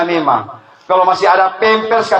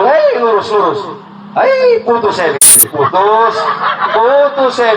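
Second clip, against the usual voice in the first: mock heart monitor; slower than usual. Voicing the ICU heart monitor.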